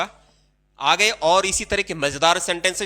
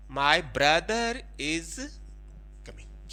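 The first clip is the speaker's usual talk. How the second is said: slow dictation; 6 dB quieter, much slower than usual. Shown as a demonstration. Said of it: "clear?".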